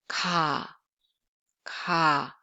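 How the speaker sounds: "Ka" with a lax k, little air; plain Korean k in "Ka"; no aspiration. Shown as a demonstration. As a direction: say "ka" low, between k and g. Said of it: "no aspiration".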